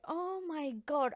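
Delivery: tearful. Retold or imitated. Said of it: "I was in tears. I was crying".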